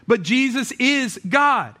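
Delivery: emphatic declaration. Real, not acted. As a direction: declare it slowly, punching God. Preacher declaring core claim.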